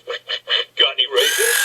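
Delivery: quacky, voiceless "quick, quick, quick"; joke duck. Acted. Duck asks bartender for raisins, quacking voice. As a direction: quack out the repeated word like a duck.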